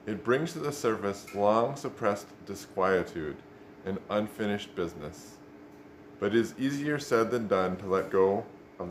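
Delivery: measured, clearly projected book reading; reading aloud. Real, not acted. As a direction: read the passage out with deliberate emphasis and pauses. Reads a book section aloud.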